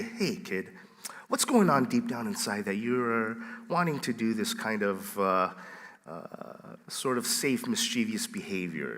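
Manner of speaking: soft, hushed earnest questioning; gentle mock counselling. Pastor playing concerned talk with the kid, very soft. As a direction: drop softly into a pretend heart-to-heart.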